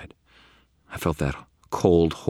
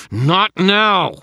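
high, loud shout; exasperated yell; 11 dB louder than usual. A narrator's reading. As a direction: cut off the interruption under strain. Straining wizard yells at interruption.

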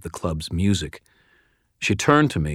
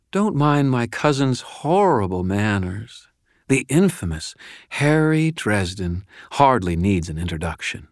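lightly voiced seductive woman, pitched up; sultry cousin; 4 semitones higher than usual. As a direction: purr it a little, toying with the wizard.

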